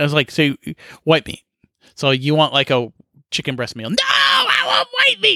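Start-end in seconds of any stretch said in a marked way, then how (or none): 3.9-5.4 acted, very high, drawn-out toddler-style tantrum. Retelling how an upset, yelling man answered the speaker, imitating a near-tantrum. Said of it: "Almost a tantrum".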